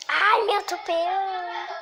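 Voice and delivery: high, loud alarmed cry; panicked cry. Real, not acted. Getting run over in the game, high alarmed yelp.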